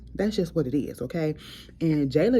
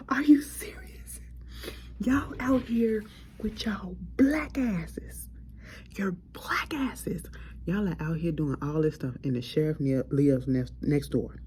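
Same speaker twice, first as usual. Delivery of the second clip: whispered disbelief; 3 semitones higher than usual. Retold or imitated. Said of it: "I said".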